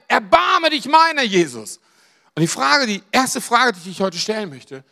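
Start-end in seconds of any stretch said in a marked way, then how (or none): 0.1-1.8 shouted plea. Retold or imitated. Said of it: "er kann nichts anderes als schreien".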